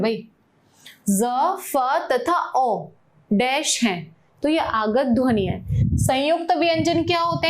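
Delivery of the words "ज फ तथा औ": ज and फ said as dotted sounds, very slowly; teacher slowly sounding the dotted letters; dotted sounds demo. Shown as a demonstration. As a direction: spell out ज, फ तथा औ slowly, letter by letter. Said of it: "ये ज और फ के नीचे ये बिंदु है".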